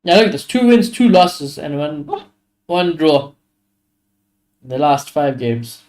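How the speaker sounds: talking through hiccups; words broken by hiccups. Real, not acted. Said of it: "I got hiccups".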